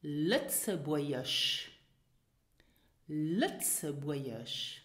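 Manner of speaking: Lützeburgisch said slowly, silent g, vowels gliding; slow teacher model of Lützeburgisch with no g sound; Lützeburgisch drawn out clearly for repeating; model pronunciation. Shown as a demonstration. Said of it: "Listen and repeat after me".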